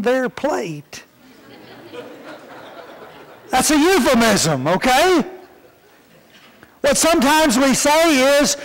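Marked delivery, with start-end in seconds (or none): 3.5-5.2 says it with a chuckle; a light laugh through the words. Real, not acted. Preacher to congregation, laughing at the joke.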